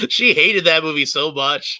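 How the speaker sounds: loud, slow, laughing emphasis. Real, not acted. Teasing about mom's hated movie, laughing. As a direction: say it through laughter, drawing it out.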